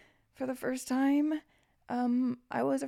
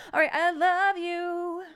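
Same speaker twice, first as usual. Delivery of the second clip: laughing; 9 semitones higher, 5 dB louder, slower than usual. Real, not acted. Laughing after monster voice.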